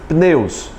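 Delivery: "pneus" with an isolated p pushed into n; pronúncia esforçada sem I. Shown as a demonstration. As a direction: say "pneus" carefully, no i after the p. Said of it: "teria que fazer esforço pra pronunciar". ("pneus" com p mudo, articulado com esforço)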